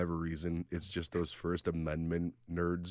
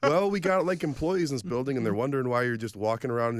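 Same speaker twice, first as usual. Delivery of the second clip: high, louder reasonable cop; cop explaining; 4 semitones higher, 3 dB louder than usual. Retold or imitated. Cop voiced higher.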